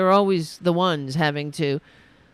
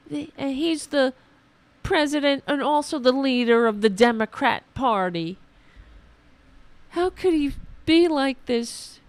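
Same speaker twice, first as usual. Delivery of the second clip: mock right-winger; 5 semitones higher than usual. Mocking right-winger voice continues.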